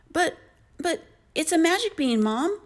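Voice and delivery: put-on high-pitched, halting boy's plea; stammering protest. A narrator's reading. Jack defending the bean to his furious mom, high stammer. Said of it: "stammered Jack".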